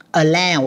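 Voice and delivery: "Allow" ending in an AO glide; OW as in "how". Shown as a demonstration. Teacher comparing OW spellings, slow AO sound in "Allow". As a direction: say "Allow" to rhyme with "now", drawn out slowly. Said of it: "âm L ha".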